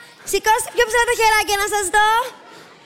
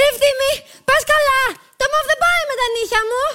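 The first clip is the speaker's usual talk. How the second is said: higher-pitched fussy complaint; indignant whine; 4 semitones higher than usual. Acted. Passenger objects to the mauve clothes, indignant whine. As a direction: protest in a raised, put-out voice.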